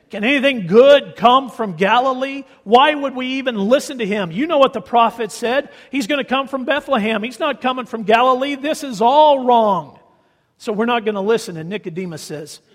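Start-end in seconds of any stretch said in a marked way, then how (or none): 0.1-11.6 louder, higher mock indignation; scornful Sanhedrin. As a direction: dismiss Galilee with contempt. Voicing the Sanhedrin again.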